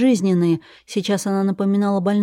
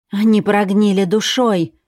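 louder fanatical cry; shout; 2 semitones higher, 4 dB louder than usual. Acted. Ирина shouts her belief at the captive, fanatical. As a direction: shout it with blind conviction. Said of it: "закричала Ирина".

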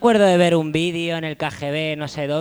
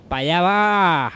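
imitating the singer; 4 semitones higher, 5 dB louder, slower than usual. Echoing the singer's intro line.

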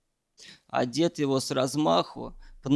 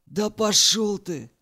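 grumbled; 6 semitones higher, 4 dB louder than usual. A narrator's reading. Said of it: "буркнул".

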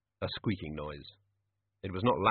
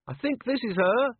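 high-pitched call down; raised voice, well up in pitch; calling from above; 13 semitones higher, 4 dB louder than usual. A narrator's reading. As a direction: project it down from a height. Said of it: "said a voice from above".

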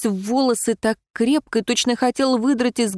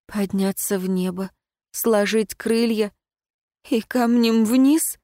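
trembling voice. Acted. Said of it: "спросила я дрожащим голосом".

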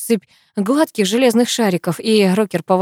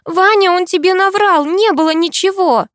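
high, loud anguished cry; frantic girlfriend pleading; desperate plea; 11 semitones higher, 3 dB louder than usual. A narrator's reading. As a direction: beg Vanya to believe her. Girl pleads amid fight.

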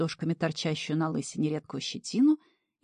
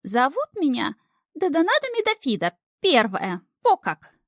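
much higher, louder grand falsetto; dignified lady; 9 semitones higher, 4 dB louder than usual. A narrator's reading. Imp proudly naming himself to devil, grand falsetto. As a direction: announce it like a haughty noblewoman. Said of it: "с достоинством произнёс".

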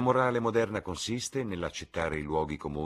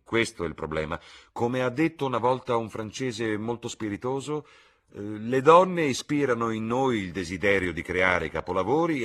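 loud, animated lord with raised pitch; witty Lord Henry; 6 semitones higher, 8 dB louder than usual. Acted. Lord quotes a Frenchman on women, loud and emphatic. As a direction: build the quip up louder and higher.

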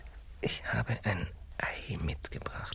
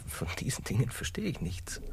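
whisper; 6 semitones higher than usual. Acted. Confession in whispers.

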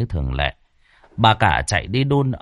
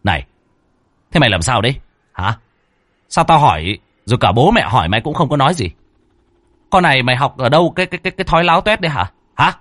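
fast, rising angry rant; angry scolding; 4 semitones higher, 3 dB louder, much faster than usual. A narrator's reading. Husband berates silent wife, fast and angry. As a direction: scold her fast and hard. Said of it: "anh chỉ tay mà quát".

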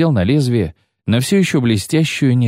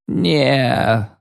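yelling wounded man; 3 semitones higher than usual. Acted. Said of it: "заорал раненый".

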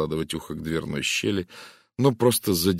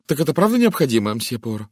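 trembling voice; 6 semitones higher, 6 dB louder than usual. A narrator's reading. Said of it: "спросила дрогнувшим голосом".

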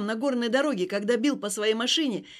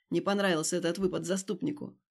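usual speaking voice

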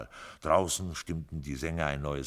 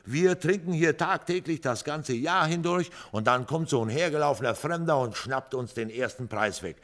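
sour grumble, higher and louder; grumbling; 10 semitones higher, 6 dB louder than usual. A narrator's reading. Joe grumbling about the lottery win. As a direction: grumble about the lucky stranger. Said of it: "schimpfte Joe".

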